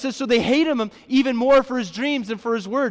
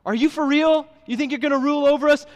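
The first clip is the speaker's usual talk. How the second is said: incredulous brothers; 5 semitones higher than usual. Retold or imitated. Brothers mocking Joseph's dream, high incredulous scoff. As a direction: scoff at a little brother's boast. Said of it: "all of them are incredulous".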